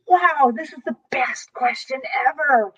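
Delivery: breathless whispered awe; excited whisper. Retold or imitated. Reliving her delight at the client's question, whispered. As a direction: whisper it like you can't believe your luck. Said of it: "my heart, again, leaped for joy".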